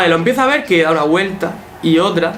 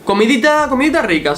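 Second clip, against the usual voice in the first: cutesy mock tone; 6 semitones higher than usual. Tono cariñoso de burla sobre comida.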